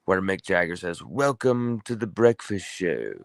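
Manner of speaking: put-on a faint try at a British accent, a singer's quote; lightly put-on British accent, barely there; half-hearted British accent; attempted British accent. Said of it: "I can't really do a British accent".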